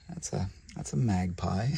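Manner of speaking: quiet whispered aside; hushed whisper. Real, not acted. Keeper naming a snake, whispered. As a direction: whisper it to keep them calm.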